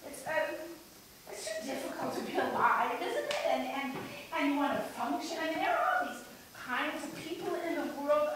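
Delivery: lightly played woman coming unravelled; halting, mildly agitated dramatic monologue; unsettled monologue character. Frustrated shopper confiding about the tuna aisle, lightly unhinged.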